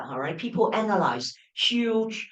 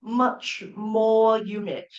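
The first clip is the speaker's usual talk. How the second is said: slowly quoted; 3 dB louder, slower than usual. Shown as a demonstration. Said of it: "see there".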